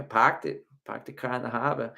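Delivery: put-on dropped-r Boston accent. Host jokes about Boston speech, Boston accent. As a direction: put on Boston vowels with soft r's. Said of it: "I did hear some of those accents".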